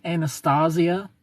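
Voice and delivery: Anastasia said "ann-uh-STAH-zee-uh"; slow Anastasia, open "ah", rising at the end; Western accent reading. Shown as a demonstration. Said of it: "say with a Western a".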